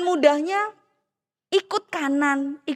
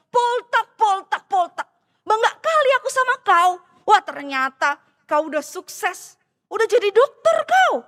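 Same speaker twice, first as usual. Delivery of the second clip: excited friend; 3 semitones higher, 3 dB louder than usual. Acted. Friend excitedly greets Poltak.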